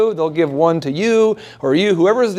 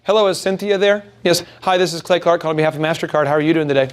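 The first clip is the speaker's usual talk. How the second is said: credit card cold caller; faster than usual. Retold or imitated. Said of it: "so they'll say something like".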